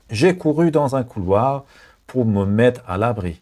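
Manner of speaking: slow, careful French read for learners; slow dictation. Shown as a demonstration. Teacher reading slowly to learners, slow clear dictation. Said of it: "teacher reads French sentence slowly".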